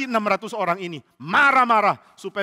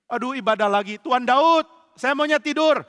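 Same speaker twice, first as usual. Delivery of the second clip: whiny complaint; 5 semitones higher, 3 dB louder than usual. Acted. Lazy follower whines at David.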